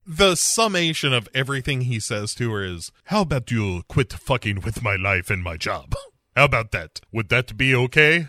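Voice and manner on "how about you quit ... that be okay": put-on Latin accent. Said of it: "my sexy Latin accent".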